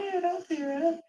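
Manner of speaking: choking back tears as she speaks; tearing up. Real, not acted. Fighting tears as her friend comforts her, softly. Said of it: "You're tearing up right now".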